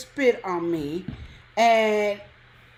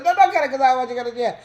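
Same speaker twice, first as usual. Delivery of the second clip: fast, louder, urgent stop; urgent rushed plea; 3 semitones higher, 8 dB louder, much faster than usual. Retold or imitated. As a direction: hurry to stop him. Repeats reversal louder.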